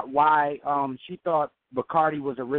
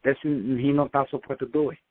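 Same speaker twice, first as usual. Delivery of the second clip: put-on light Cuban-accented English from his dad; 3 semitones higher than usual. Son imitating his Cuban father's accent for the host. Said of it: "do an accent of my father, how he talks".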